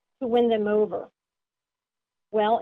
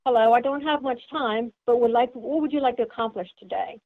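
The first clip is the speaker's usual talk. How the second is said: brisk, pushy. Shown as a demonstration. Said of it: "they're a little bit more aggressive".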